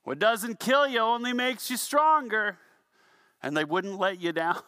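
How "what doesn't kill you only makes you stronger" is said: mock yell up. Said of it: "somebody down below would yell".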